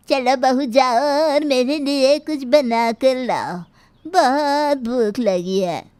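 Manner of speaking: a sharp-tongued granny taunting her daughter-in-law; stern old grandmother. Acted. Grandmother-in-law orders food.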